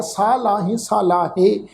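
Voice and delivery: ਲਾਹੇ with the ਹ sounded out; showing the reading to avoid, ਲਾਹੇ not ਲਾ; wrong pronunciation. Shown as a demonstration. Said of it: "ਇਸ ਢੰਗ ਨਾਲ ਅਸੀਂ ਪ੍ਰੋਨਾਂਸ ਨਹੀਂ ਕਰਦਾ". (ਗਲਤ ਢੰਗ, ਲਾਹੇ ਬੋਲਣਾ)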